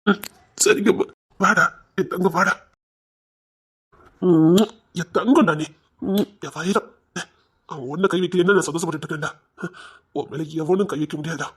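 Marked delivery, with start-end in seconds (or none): 1.4-11.5 tender. Acted. Brother dotes on and reassures brother.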